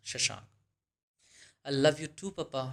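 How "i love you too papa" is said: put-on lightly chirped child's reply; a touch of chirpiness for the little boy; mild, childlike chirp. A narrator's reading.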